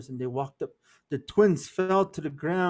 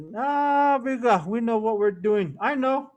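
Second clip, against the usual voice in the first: put-on higher, louder, brushing it off like cocky young men; cocky twins; 5 semitones higher, 4 dB louder than usual. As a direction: wave the elders off with a careless laugh in the voice.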